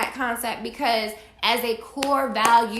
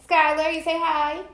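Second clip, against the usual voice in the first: coaxing; 4 semitones higher than usual. Real, not acted. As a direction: coax a little one to say hi. Prompting Skylar to say hi.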